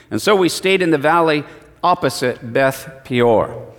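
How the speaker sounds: measured, solemn Bible reading; scripture reading. Acted. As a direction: read the verses with weight.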